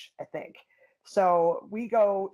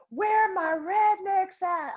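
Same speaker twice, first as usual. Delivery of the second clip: much higher, slow hollering rednecks call; redneck fan call; 11 semitones higher, 4 dB louder, much slower than usual. Retold or imitated. Mimicking a fan at the fight, slow hollering call. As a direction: holler it like a beer-holding fan.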